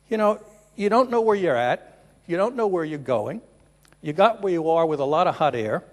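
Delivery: a cheeky jab, half-hammed; mock scolding retort. Punchline retort in balloon joke.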